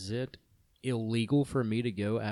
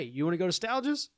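mock Boston or New York accent, pitched higher; 8 semitones higher than usual. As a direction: lightly ham up a Boston tough guy. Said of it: "that sounds like a dude from the".

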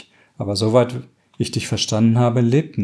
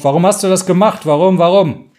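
anguished cry, much higher and louder; 8 semitones higher, 5 dB louder than usual. Acted. Maria cries out over her comatose sister, anguished shout. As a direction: cry it out in despair at the bedside. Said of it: "dann schreist du auf".

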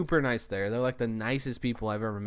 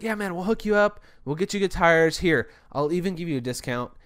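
friendly buddy; 5 semitones higher, 5 dB louder than usual. Retold or imitated. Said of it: "he was like a buddy".

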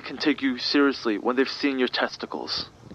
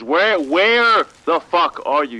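loud, slow and furious; exasperated yell; 6 dB louder, slower than usual. Acted. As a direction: bark it out, fed up. Exasperated handler yelling at agent.

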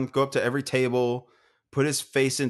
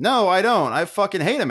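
higher, louder comic rebuttal; indignant retort; 5 semitones higher, 3 dB louder than usual. Retold or imitated. Drinker contradicting doting parent about Carson, indignant retort. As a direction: cut in with mock outrage.

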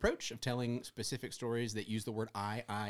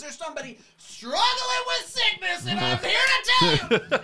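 a fortune teller in the pulpit, much higher and louder; mystical horoscope reading; 10 dB louder than usual. Retold or imitated. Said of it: "sound like a fortune teller".

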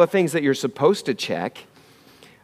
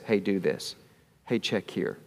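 much softer and lower, hushed; still quiet inner voice; 7 semitones lower, 11 dB quieter than usual. Retold or imitated. The inner voice of God nudging him, hushed and soft. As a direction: murmur it like a voice deep inside. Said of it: "still, quiet voice".

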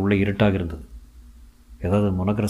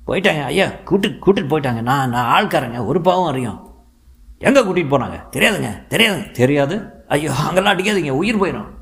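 pleading in fear; 6 semitones higher than usual. A narrator's reading. Beaten henchman begging the police, high and terrified. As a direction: plead for your life under the blows.

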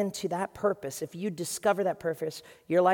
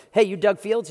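much louder, bright and eager; eager phone greeting; 3 semitones higher, 9 dB louder than usual. Retold or imitated. Young pastor phoning a famous youth pastor, eagerly loud. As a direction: call out like a nervous fan.

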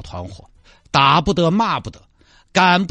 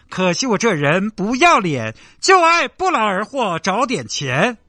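slow sing-song loudspeaker hawker chant; mocking recorded pitch for a fake beggar; street vendor recording. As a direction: drone it out like a looped market loudspeaker ad. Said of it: "录一个那种卖吼吼那种音频".

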